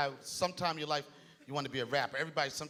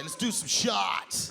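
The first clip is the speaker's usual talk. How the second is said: white guy voice; much slower than usual. Retold or imitated. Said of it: "they wanna do shots".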